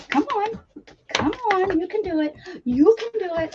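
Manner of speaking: high, encouraging pet talk; coaxing. Real, not acted. Owner urging the dog to climb up, coaxing.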